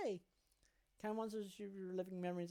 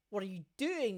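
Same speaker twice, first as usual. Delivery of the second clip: doctor's shout; 2 semitones higher, 6 dB louder than usual. Acted. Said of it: "the doctor shouts at him".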